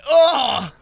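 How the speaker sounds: loud, high triumphant oh; high, loud prank cry; gleeful exclamation. Retold or imitated. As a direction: shout it like you got him. Rubbing wet hand in friend's face.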